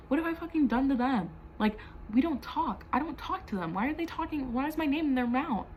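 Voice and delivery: replaying the outburst at her roommate's friends; angry rant. A touch of mock fury. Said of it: "I literally raged".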